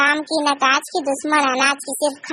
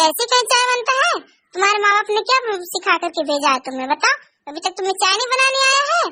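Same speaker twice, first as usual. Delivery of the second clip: lightly voiced angry mother-in-law ranting about dowry; scolding mother-in-law. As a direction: complain bitterly about the tea and the dowry. सास चाय पर भड़कती है. (नाराज़ सास का ताना)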